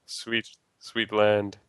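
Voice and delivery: slow, savoring relief; drawn out sigh of relief; relieved. Real, not acted. Relieved at reaching land.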